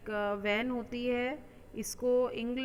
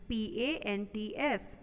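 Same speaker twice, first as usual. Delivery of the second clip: spelled letter by letter. Shown as a demonstration. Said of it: "spelling out the word".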